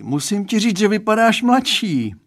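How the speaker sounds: put-on dad confiding in the boy; Mr Stránský's voice. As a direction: play the girl's dad, earnest and chatty. Father's remark.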